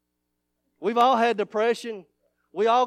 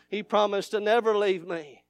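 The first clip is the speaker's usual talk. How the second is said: normal talking voice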